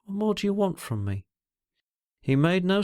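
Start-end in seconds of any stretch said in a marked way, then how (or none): 0.0-1.3 gentle question, pitched higher. A narrator's reading. She asks him what more he wants, gently. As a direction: ask it tenderly, in a higher voice. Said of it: "She asked gently".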